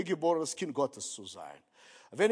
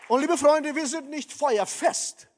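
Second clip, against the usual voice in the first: rising high and loud to rally the church; fervent call; 7 semitones higher, 4 dB louder than usual. Acted. Preacher rallies his congregation, a high ringing call.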